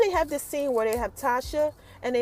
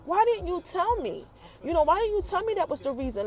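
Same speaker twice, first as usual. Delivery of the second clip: mildly heated mock demand, higher pitched; 4 semitones higher than usual. Woman confronts the man who left her, mildly heated. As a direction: retell her heated questioning, voice lifted. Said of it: "she's heated".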